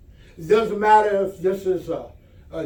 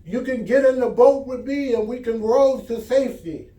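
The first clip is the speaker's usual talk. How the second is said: calling out to a neighbor; 5 semitones higher than usual. Acted. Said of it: "And he called out".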